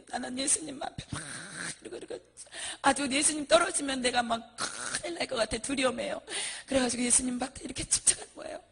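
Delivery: ordinary talk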